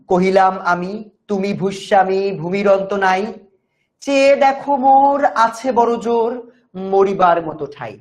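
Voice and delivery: measured recital of verse; poem recitation. Acted. Teacher reciting the poem's opening lines to students. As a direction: read it as a classroom poem, line by line.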